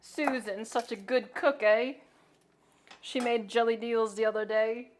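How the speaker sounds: lightly put-on British accent; mock British accent. Repeating the British bit for chat, in a mild put-on British accent. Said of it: "now that's just Scottish".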